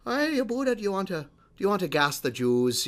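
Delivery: high-pitched coaxing pet-talk, starting highest; imitated cutesy voice. Host imitates owner talking to his pug, cutesy voice. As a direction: mimic an owner cooing to a dog. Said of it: "in the cutest voice that he could".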